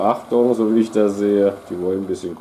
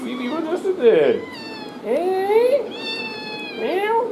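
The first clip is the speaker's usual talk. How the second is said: high squeaky pet voice; slower than usual. Real, not acted. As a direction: coo up high at the cat. Cooing to the cat.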